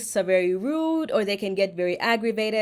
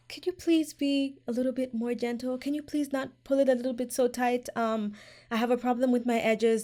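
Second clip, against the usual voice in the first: polite request; 4 semitones higher than usual. Shown as a demonstration. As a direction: ask nicely and gently. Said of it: "also be very polite".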